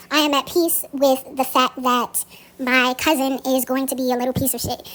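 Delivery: joking, tossed-off example line with a laugh at the end; half-joking, say it flippantly; playful example. Shown as a demonstration. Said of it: "kinda sounded, you know, kinda playful".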